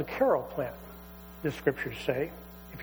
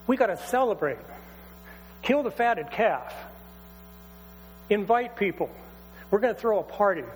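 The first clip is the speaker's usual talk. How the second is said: joyful celebration call. Acted. Father calls for a party.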